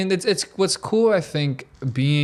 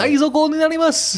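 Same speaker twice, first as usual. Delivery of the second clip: loud, over-the-top voice-over parody; strained, exaggerated dub voice, played for laughs; mock Japanese dub voice; 7 dB louder than usual. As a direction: belt it out like a hammed-up anime dubber. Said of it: "that really deep voice, and I'm like".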